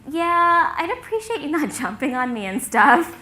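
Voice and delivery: politely uncomfortable, with a nervous little laugh; squirming. Retold or imitated. Student asking her friend not to hug her, squirming. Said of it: "I was squirming".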